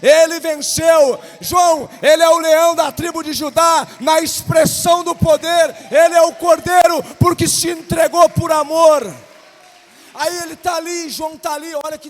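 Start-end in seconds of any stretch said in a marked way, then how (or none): 0.0-9.0 the angel's voice building to a shout; thundering heavenly messenger; angel's proclamation. Acted. Angel speaks to John, preached.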